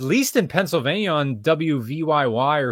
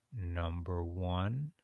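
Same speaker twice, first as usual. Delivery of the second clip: first mic setting; 7 semitones lower, 10 dB quieter, slower than usual. Shown as a demonstration. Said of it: "Which sounds better?".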